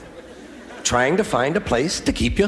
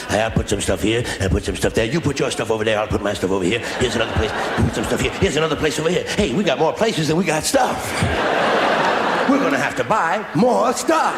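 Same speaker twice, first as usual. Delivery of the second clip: lower, chatty self-talk; tourist unpacking; 4 semitones lower than usual. Pretend. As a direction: putter about the room pleased with yourself.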